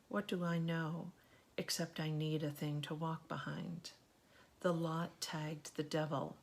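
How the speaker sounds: measured poem reading, pauses between phrases; even, deliberate recital of verse; poetry reading. Acted. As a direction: read it as a poem, evenly, line by line. Reads a poem aloud.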